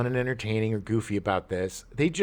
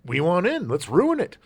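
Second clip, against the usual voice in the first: greedy studio exec; 6 semitones higher than usual. Retold or imitated. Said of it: "the studios are like".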